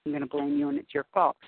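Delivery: high, indignant mock accusation; mock blaming. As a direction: play your old self pointing the finger. Old self blaming others.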